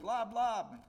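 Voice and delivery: high, loud mock shout; shouted lob. Soldier throwing pretend grenade, loud mock shout. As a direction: toss the words out with force.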